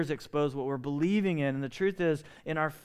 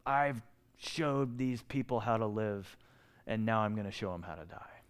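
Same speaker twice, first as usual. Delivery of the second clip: Barb; 4 semitones lower, 5 dB quieter than usual. Retold or imitated. Dying church leader confides in a friend at a retreat, quietly resolute. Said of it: "with a voice that only Barb could do".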